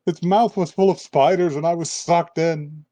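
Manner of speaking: put-on frightened girl. Girl waking from nightmare.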